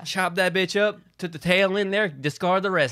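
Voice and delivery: hammed-up Southern drawl. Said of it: "mock Southern recipe giver".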